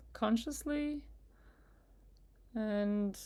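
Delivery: unhurried meditation guide with long pauses; guided meditation. Acted. Guide asking listeners to relax with each breath, in calm meditation voice. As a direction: ease them gently through it, leaving space between phrases.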